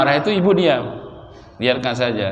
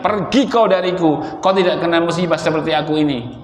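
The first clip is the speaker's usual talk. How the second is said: mildly sharp, raised-pitch dismissal; harsh retold rebuff; 5 semitones higher than usual. Preacher quoting bereaved woman rebuffing the Prophet, mildly harsh. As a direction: imitate a grieving woman pushing someone away. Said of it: "kata-kata yang tidak enak".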